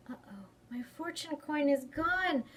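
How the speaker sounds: a touch of tearful dismay; mild dismay. Acted. Child discovering her lost coin, mildly upset.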